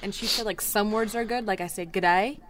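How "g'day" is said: mimicked Aussie greeting; amateur Australian accent demo. Shown as a demonstration. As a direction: try a casual Australian accent. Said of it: "I try to mimic an Australian accent".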